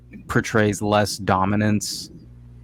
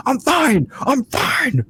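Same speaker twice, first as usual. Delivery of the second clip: much higher, strained, forced I'm-fine voice; fake I'm fine; 3 dB louder, much slower than usual. Upset worker insisting to coworkers, forced high fake fine. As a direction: squeeze it out high like you're barely holding it together. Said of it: "your B S act".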